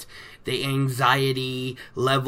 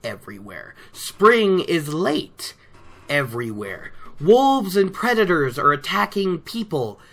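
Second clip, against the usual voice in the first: hammed-up doom-monger, every line landing on a heavy, dropping "everywhere"; a mock sinister herald of disaster; ominous peddler. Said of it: "So he goes on with his whole".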